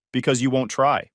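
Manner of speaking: "Because you won't try" with each word stressed; each word emphasized. A narrator's reading. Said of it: "She emphasized each word".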